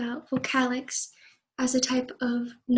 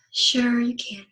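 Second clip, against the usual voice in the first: low, irritated; slower than usual. Shown as a demonstration. Sister lending brother her car unwillingly, irritated. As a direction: agree while clearly not wanting to. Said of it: "my tone of voice is low and irritated".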